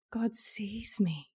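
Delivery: slow soft whisper. Real, not acted. Whispering to the host that God sees her. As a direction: breathe it out, in awe. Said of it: "repeats pivotal phrase".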